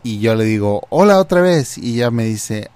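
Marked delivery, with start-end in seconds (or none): 0.9-1.8 higher-pitched, friendly hello; lightly acted friendly greeting; cheery greeting. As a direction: greet her brightly, pitch lifted.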